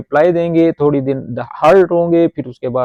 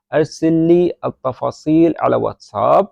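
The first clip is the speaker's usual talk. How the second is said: slow repeat; slower than usual. Shown as a demonstration. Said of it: "repeats the model sentence".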